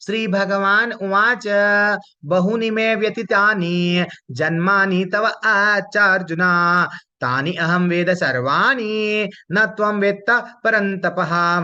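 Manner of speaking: slow, drawn-out shloka chanting; Sanskrit verse recitation. Acted. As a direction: recite scripture with long held syllables. (धीमा, लंबा खींचा श्लोक-पाठ)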